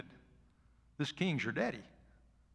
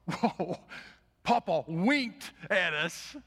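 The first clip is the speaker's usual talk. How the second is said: put-on slow, delighted kid voice, a bit higher and louder; giddy kids; 5 semitones higher, 6 dB louder, much slower than usual. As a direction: stretch it out in childish glee. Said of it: "they were just giddy".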